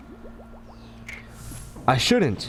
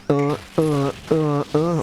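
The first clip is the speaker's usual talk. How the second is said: rhythmic dance grunts; 4 semitones lower, slower than usual. Shown as a demonstration. Imitates Trump's dance beat.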